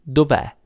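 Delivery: "dov'è" repeated as one joined word, dov-È; contracted form. Shown as a demonstration. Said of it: "but it's".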